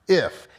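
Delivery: "if" lifted and set apart; single out the word "if"; stress on if. Shown as a demonstration. Preacher singling out the key word "if" for the congregation. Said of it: "it starts with the key word".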